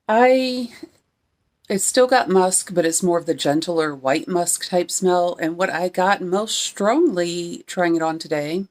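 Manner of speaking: speech slurred by a retainer; wearing a retainer. Real, not acted. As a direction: talk around a retainer. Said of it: "this retainer is kind of messing up my speech".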